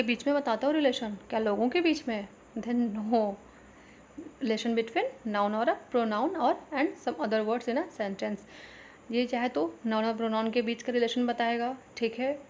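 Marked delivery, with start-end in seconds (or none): 4.4-8.4 slow, even dictation of a definition for students to copy. Shown as a demonstration. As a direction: read it out word by word so the class can write. Teacher dictates definition slowly. (धीमे-धीमे लिखवाने वाली आवाज़ में)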